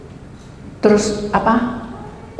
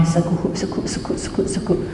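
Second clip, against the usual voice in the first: imitated sobbing; 6 dB quieter than usual.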